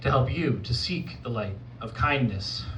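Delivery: deliberate spoken word with spaced phrases; poetry recital. Acted. Poet offering advice to the audience, poetry recital. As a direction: recite it as measured, earnest counsel.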